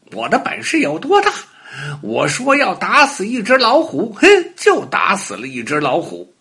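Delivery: high-pitched bragging puppy voice; boastful little dog. A narrator's reading. Little dog boasts to friends about killing a tiger, high bragging. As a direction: brag it out high and lively. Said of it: "爱吹牛的小花狗".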